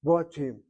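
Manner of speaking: "Batim" with a rounded "o" in the first syllable; short-kamatz pronunciation. Shown as a demonstration. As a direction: say "Batim" as baw-TEEM. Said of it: "that should be a short Kamatz".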